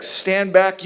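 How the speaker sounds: sharp, commanding order; firm command. Acted. Moses ordering the panicking people back, commanding. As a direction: bark the order at the crowd. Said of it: "And he's like".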